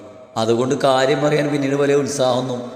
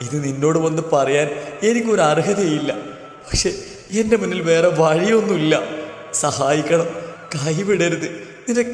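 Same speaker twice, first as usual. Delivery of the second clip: tearful pleading. Acted. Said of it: "പൊട്ടിക്കരഞ്ഞുകൊണ്ട് മീരയുടെ കാലിലേക്ക്".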